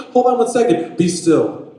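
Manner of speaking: high shout dropping to firm order; forceful voice stilling a storm; loud command. Acted.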